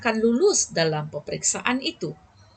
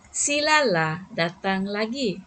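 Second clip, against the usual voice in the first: gentle coaxing invitation; slower than usual. Shown as a demonstration. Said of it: "orang pun rasa lembut hati".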